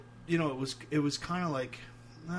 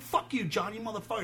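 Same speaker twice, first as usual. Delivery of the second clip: mock yelled insult; 8 semitones higher than usual. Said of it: "And I'm, like, screaming at him".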